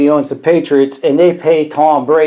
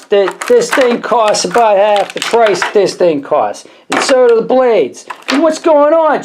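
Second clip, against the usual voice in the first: mock-outraged rant; 5 semitones higher than usual. Rant against Gillette, pitch climbing.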